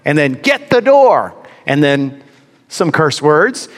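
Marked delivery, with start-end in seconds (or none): 0.3-1.3 high, drawn-out imitation of a woman yelling; woman's voice insisting. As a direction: mimic her calling out insistently, stretching the words. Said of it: "a woman's voice inside say".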